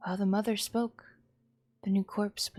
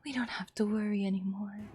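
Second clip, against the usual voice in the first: unhinged sweet mother; 4 semitones higher than usual. Acted. Mad mother voiced.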